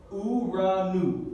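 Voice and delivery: uranu slowly, as u-ra-NU; model pronunciation. Shown as a demonstration. Teacher modelling a Greek word for students, model pronunciation. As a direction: stretch uranu out with R and N sounds clear. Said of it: "Así se pronuncia esta palabra".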